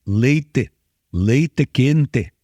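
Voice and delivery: put-on gaúcho accent, leite and quente with crisp t and final e; gaúcho accent: LEY-teh KEN-teh. Pastor imitates a gaúcho saying hot milk. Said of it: "Ele não consegue falar de outra forma".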